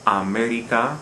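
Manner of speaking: aMErica, weight on ME; third-to-last syllable stress. Shown as a demonstration. Teacher repeating the example, America stressed on ME. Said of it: "We stress the third to last".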